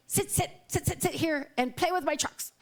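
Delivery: put-on high childlike insistence; toddler voice. Toddler ordering grandma to play, in a high childlike voice. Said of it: "He was like".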